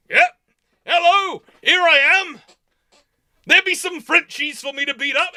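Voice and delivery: a lord itching to fight; eager brawler. Retold or imitated. Voicing Henry eager for fight.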